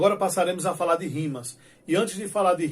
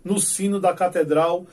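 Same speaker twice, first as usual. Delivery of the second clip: declaiming dark verses with steady rhythm; poem recital; 3 dB louder than usual. Shown as a demonstration. Teacher reciting Leandro's midnight stanza, solemn recital. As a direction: read it like a solemn cordel poet. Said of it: "ele diz assim".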